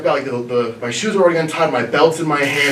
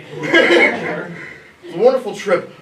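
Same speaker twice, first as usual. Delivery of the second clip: laughing; 5 semitones higher, much slower than usual. Real, not acted. Laughs through the recommendation.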